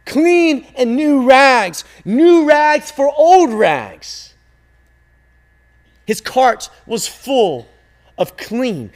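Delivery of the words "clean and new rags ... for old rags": loud, high street-seller's call, drawn out slowly; yelling. A narrator's reading. Rag man calling through the town, loud drawn-out yell. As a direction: cry out your wares down the street. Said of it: "The man would yell".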